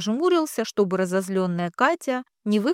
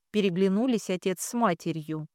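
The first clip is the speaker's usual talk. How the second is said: plain reading voice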